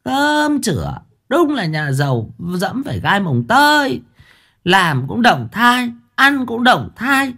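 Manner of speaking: put-on high, sarcastic old wife voice; snide jab. A narrator's reading. Wife mocks husband's worry, high sarcastic voice. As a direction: needle him with scorn, pitched high. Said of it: "bà lại cạnh khóe".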